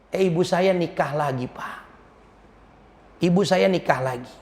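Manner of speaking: quiet, downcast complaint with pauses; subdued lament. Acted. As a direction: let the hurt out quietly, line by line. Orphan laments mother's remarriage. (mengeluh sedih dengan suara pelan)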